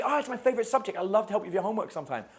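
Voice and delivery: put-on high girly voice, eager and quick; guy playing the girl offering help; girl's voice. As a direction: gush like a keen classmate. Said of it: "She's like".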